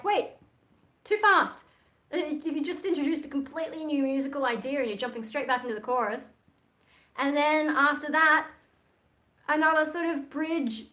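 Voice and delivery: high, loud protest; exasperated inner voice. Retold or imitated. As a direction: cry out at the rushed structure. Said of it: "And I'm like".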